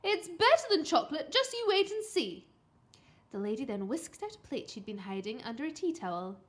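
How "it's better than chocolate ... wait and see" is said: lightly voiced mum, high and loud; upbeat, coaxing mother; eager mum. A narrator's reading. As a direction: talk up a treat to a child. Mum coaxing her son.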